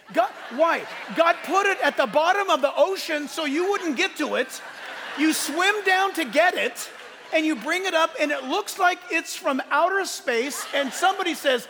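fired-up preaching. Real, not acted. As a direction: preach it in mock indignation.

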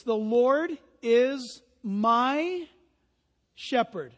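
slow, leaning on my in The Lord is my; stress on my. Shown as a demonstration. Pastor to congregation, stressing my. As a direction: dwell on my before shepherd. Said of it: "You ought to circle the word my".

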